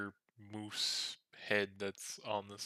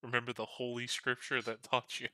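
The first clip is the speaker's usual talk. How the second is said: much louder, teasing jab; loud mock reminder; 2 semitones higher, 13 dB louder than usual. Player teasing the goblin about reading, loudly. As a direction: bellow it to rub it in.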